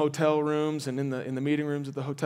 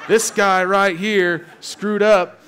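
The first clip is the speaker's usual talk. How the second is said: slow, louder, laughing through it; mock self-blame; 5 semitones higher, 9 dB louder, much slower than usual. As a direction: drag it out while laughing at yourself. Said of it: "I'm gonna be like".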